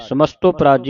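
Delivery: ਸਮਸਤੋ ਪਰਾਜੀ run together quickly; joined reading. Shown as a demonstration. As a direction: say ਸਮਸਤੋ ਪਰਾਜੀ as one unit, no break. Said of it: "ਇਕੱਠਾ ਪਾਠ ਹੈ". (ਸਮਸਤੋ ਪਰਾਜੀ ਇਕੱਠਾ ਪੜ੍ਹ ਕੇ)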